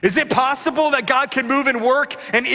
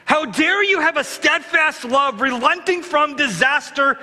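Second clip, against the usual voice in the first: slow, raised-pitch outrage at God; a resentful prophet protesting, drawn out; indignant Jonah; 3 semitones higher than usual. Retold or imitated. Preacher voicing Jonah's protest to God, slow indignant outrage. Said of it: "Here's what Jonah is saying".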